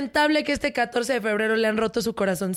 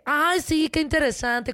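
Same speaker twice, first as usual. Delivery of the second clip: mock interest; 3 semitones higher than usual. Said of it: "Y ella de repente".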